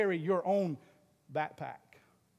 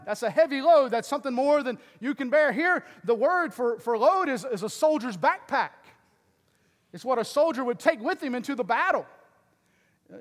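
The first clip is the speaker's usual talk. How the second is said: raised, forceful pulpit teaching; emphatic preaching; 4 semitones higher, 6 dB louder than usual. Acted. Pastor explaining burdens and loads to the church, emphatic preaching. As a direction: press the point on the congregation, loudly.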